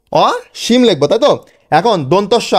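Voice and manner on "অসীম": অসীম split "aw... shim", first piece higher; broken into syllables. Shown as a demonstration. Teacher dictates what to write, অসীম in two pieces. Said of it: "ভেঙে ভেঙে".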